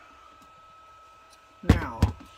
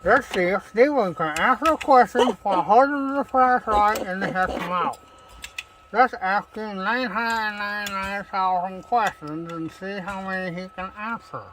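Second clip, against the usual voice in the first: loud, higher sarcastic complaint; sarcastic annoyance; 5 semitones higher, 8 dB louder than usual. Real, not acted. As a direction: needle the questioner mockingly. Annoyed at questions, flashlight in mouth.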